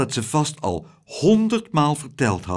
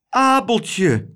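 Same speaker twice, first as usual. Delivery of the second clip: higher, louder joyful cry; overjoyed cry; 8 semitones higher, 4 dB louder than usual. Acted. Mother greeting her returned son, joyful cry. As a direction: call his name in joy.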